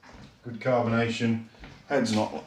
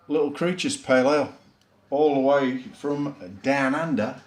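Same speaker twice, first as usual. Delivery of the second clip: put-on a light, half-hearted Australian accent, higher and louder; bad Australian accent; 3 semitones higher, 3 dB louder than usual. Beer reviewer announcing an Aussie beer in a mock Australian accent. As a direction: have a go at sounding Australian, not very convincingly. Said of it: "Sorry about the Australian attempt at an Australian accent".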